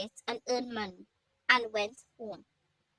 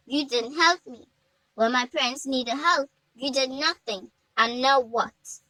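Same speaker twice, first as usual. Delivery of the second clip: angry; 4 dB louder than usual. Acted. Hannah confronts elder.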